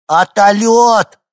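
put-on very high, loud, drawn-out child's shout; детский восторг. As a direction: squeal it slowly like a delighted toddler. Малыш восторженно кричит о вертолёте. (восторженный детский крик)

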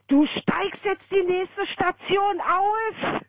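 high, very slow commanding voice; stern order. Retold or imitated. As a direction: lay down the law slowly. Ordering the thug off.

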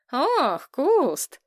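a touch of affectionate warning; gentle threat. A narrator's reading. Platon gently warning the hanging boy, affectionately threatening. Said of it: "с ласковой угрозой произнёс Платон".

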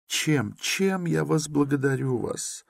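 overwhelmed with gratitude; grateful mother. A narrator's reading. Mother thanks Razumikhin in a high, moved voice.

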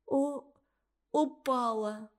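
words choked off by tears; a light touch of sobbing; breaking into sobs. Acted. Girl witness ending her account in tears, mild sobbing. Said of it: "Ксюша разрыдалась".

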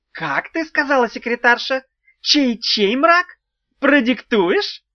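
high, loud, slow mocking drawl; sneering taunt. A narrator's reading. Imp taunts the witch, notebook at the ready, mocking. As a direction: bait her, savouring each word.

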